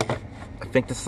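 unsure whispered aside; whispering. Real, not acted. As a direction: whisper it to yourself. Unsure aside about startup screen.

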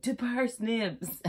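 slow hammed-up toast to parsnips; final toast. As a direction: draw it out for the punchline. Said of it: "the last one's like".

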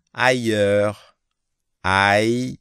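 ailleurs as ai-yeur, no L, no S; teacher modelling ailleurs; French ailleurs. Shown as a demonstration. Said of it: "A I, nó đọc là ai".

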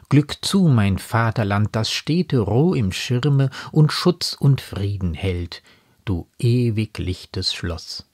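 measured verse reading; lightly declaimed poetry; poem recitation. Acted. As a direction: read the quoted verse deliberately, line by line. Quotes poem verses between commentary.

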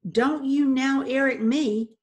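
loud, slow, indignant husband; angry retort. Acted. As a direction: throw her words back crossly. Husband snaps back at wife.

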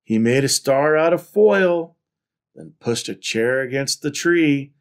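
animated picture-book reading; story narration. A narrator's reading. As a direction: read it out to children with lively emphasis. Reads picture book aloud.

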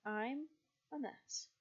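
talking through a yawn; words stretched by a real yawn. Real, not acted. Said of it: "I'm yawning".

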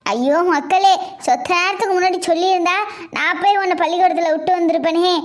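lightly voiced granny pouring out affection; a hint of an old grandmother cooing; doting grandma. Grandma coos over the grandchild.

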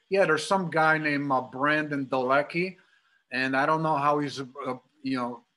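put-on a light Chicago accent on a cousin's phone call. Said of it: "That's my Chicago accent coming out".

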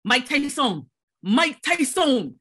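mock excited street call; kids calling out. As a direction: imitate kids hollering at a passer-by. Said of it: "every black man that they saw".

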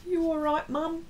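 high cutesy voice for the dog; high, playful pet voice; dog's voice. Retold or imitated. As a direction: speak for the pet, sweet and high. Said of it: "That's what she's saying, my dog".

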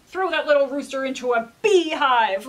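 loud furious command; king orders the rooster into a beehive, furious. Acted. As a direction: order it in a rage. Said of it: "The king was furious".

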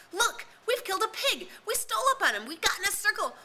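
high, loud triumphant boasting; excited. A narrator's reading. Jack hailing Ralph after the kill, high excited boast. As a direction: burst out with the news. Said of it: "hailed Ralph excitedly".

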